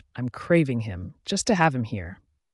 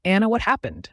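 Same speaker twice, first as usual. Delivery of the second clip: high, loud alarmed cry; freaking out; 7 semitones higher, 4 dB louder than usual. A narrator's reading. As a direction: panic at her state. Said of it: "Katie freaks".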